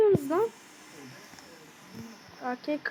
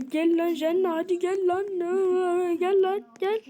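taunting call; 4 semitones higher than usual. Real, not acted. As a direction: goad the enemies to come at you. Taunting monsters to come.

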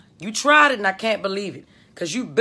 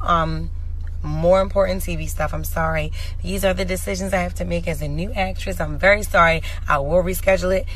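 formal announcement; 3 semitones lower than usual. Acted. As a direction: address the fans like an official notice. Formal apology announcement to fans.

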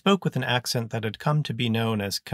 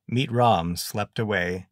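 ordinary delivery

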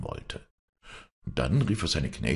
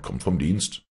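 master barking at a lazy servant; angry scolding. Acted. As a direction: scold it sharply. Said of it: "schrie ihn sein Herr an".

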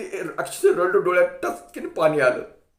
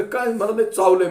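louder, half-crying complaint; tearful complaint; 3 semitones higher, 6 dB louder than usual. Retold or imitated. Boy in heroine costume crying to the crowd about the bite. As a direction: whimper that it bit you hard. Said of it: "रडायला लागलो".

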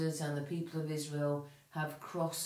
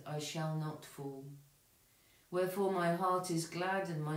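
measured, solemn reading of a psalm; liturgical psalm reading. Acted. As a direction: read it prayerfully, steady and even. Reads psalm and collect aloud.

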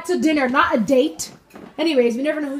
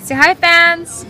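put-on slow, louder coaching to child; slow prompting; 5 semitones higher, 5 dB louder, much slower than usual. Shown as a demonstration. Mom coaching her son to greet the fans, slowly. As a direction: spell it out slowly for him. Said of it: "coaching kid on camera".

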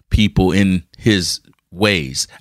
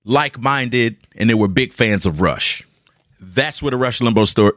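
whispered aside. Real, not acted. Aside about Rush fans.

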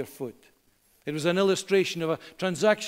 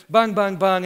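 put-on louder child's "bang, bang" gunfire; mock gunshots; 5 dB louder than usual. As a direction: play kid shooting with mouth noises. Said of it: "they would bang".

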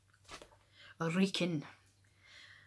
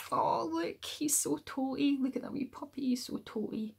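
much higher, cooing over a wee puppy; 9 semitones higher, 4 dB louder than usual. Acted. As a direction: gush over how tiny it is.

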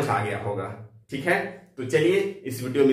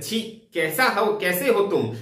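disgust; 5 semitones higher than usual. Shown as a demonstration. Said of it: "यहाँ घृणा का भाव".

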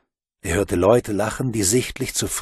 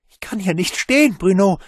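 high, louder frightened plea; whimpering wail; 9 semitones higher, 5 dB louder than usual. Acted. Boy in the cesspit wails to Bruno, frightened. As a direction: cry out helplessly from the pit. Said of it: "jammerte er".

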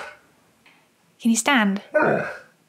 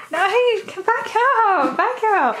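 firm command; 6 semitones higher, slower than usual. Real, not acted. Owner firmly tells dog back.

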